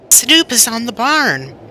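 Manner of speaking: high excited cry. Acted. Bert seeing the kitten land on the roof, excited cry. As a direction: announce it with a burst of alarm. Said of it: "cried Bert".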